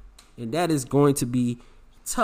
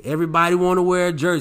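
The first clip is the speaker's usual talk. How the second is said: retold coach; 4 dB louder, faster than usual. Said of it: "the first thing the coach said".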